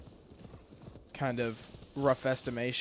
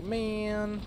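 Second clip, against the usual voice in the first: exasperated; 9 semitones higher than usual. Retold or imitated. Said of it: "'Cause then I'll be like".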